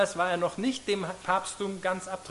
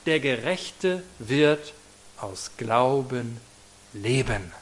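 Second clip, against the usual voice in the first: slow, solemn voice that drops lower toward the end; solemn Donnerstimme; 4 semitones lower, much slower than usual. Retold or imitated. Preacher voicing the thunder voice that spoke to Luther, slow and solemn. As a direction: lay each word down slowly like a voice from heaven. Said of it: "eine Donnerstimme ... ihm sagt".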